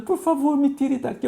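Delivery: retold crying plea.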